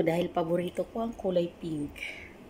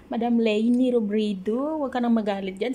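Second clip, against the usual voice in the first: louder mock plea; 3 semitones higher, 4 dB louder than usual. Calling out to Madam Leni.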